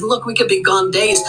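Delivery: put-on high, begging child's voice. Boy pleads with the eagle to take them along, high begging child voice. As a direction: plead with him like a small boy.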